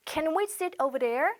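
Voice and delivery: drawn out for learners; slow model question. Shown as a demonstration. Teacher modelling a question for students, slowly. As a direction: ask it slowly and clearly. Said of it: "영어로".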